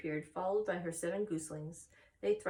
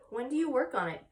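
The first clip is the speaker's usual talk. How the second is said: higher, louder eager plea; begging; 6 semitones higher, 5 dB louder than usual. Acted. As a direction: beg her to tell you. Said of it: "begged Wilbur".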